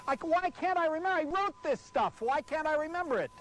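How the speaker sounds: high, fast, exasperated pleading; frustrated outburst. Real, not acted. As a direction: tear into yourself for forgetting. Forgets his own script.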